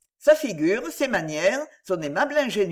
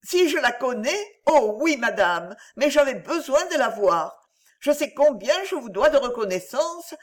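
higher, through held-back tears; tearful; 5 semitones higher than usual. Acted. Virginie to Belinde, weeping openly, tearful and high. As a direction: let the tears break into the words. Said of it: "sans retenir ses pleurs".

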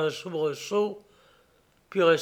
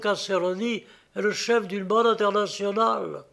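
higher, anxious captive; lightly voiced weary prisoner; prisoner's voice; 4 semitones higher than usual. Meeking tells the plot.

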